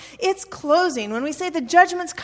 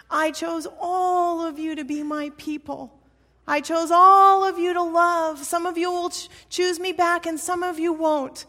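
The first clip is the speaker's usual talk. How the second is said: higher, emphatic voice of God declaring a choice; God speaking; 4 semitones higher, 3 dB louder than usual. Acted. God telling the people they are chosen, emphatic declaration. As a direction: proclaim it to all the people, leaning on key words. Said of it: "God says".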